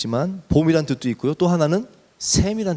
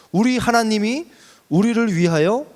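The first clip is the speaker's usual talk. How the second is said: higher-pitched, emphatic declaration to rally the people; rousing proclamation; 4 semitones higher than usual. Retold or imitated. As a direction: proclaim it like a leader rallying builders. Proclaims Nehemiah's words to the people. (백성을 북돋우는 힘찬 선포)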